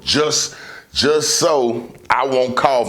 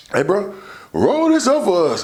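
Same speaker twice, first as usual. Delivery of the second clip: casual request; 11 semitones higher than usual. Retold or imitated. Asking friend to roll blunt.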